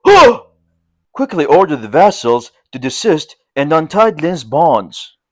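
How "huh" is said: surprised exclamation. A narrator's reading. Man recognises Lin.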